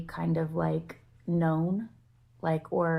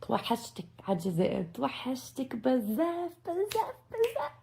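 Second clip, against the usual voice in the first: longing; 6 semitones higher, much faster than usual. Real, not acted. Missing Algeria, longing outburst.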